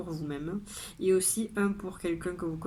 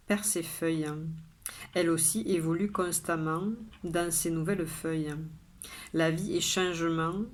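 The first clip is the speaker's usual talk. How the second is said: measured poem reading, pausing after each line; poem recitation. Acted. Poet sharing today's poem with viewers, measured recitation. Reads the poem a second time.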